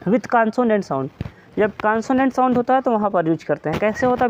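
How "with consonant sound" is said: slow dictation. Shown as a demonstration. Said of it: "जब भी हम ए का यूज़ करते हैं".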